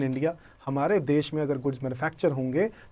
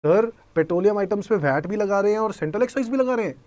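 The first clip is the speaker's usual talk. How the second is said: lightly voiced student, higher and quicker; student's objection; 4 semitones higher, faster than usual. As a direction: question the teacher in a quick, raised voice. Teacher voices a puzzled student.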